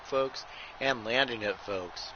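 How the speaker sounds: running ringside commentary calling every move; wrestling play-by-play. Acted. Commentator calling a blindfolded wrestling match to viewers, play-by-play. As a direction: call the match move by move, punching each folks.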